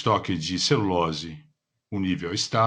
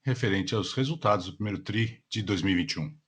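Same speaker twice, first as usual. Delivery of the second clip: polished call operator announcement; customer service voice. Acted. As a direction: read it like a conference call host. Conference call operator opening. (voz de atendimento ao cliente)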